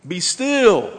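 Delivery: high, firm command; stern rebuke. Acted. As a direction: rebuke as if casting out a demon. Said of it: "rebuked the waves as if he were casting out a demon".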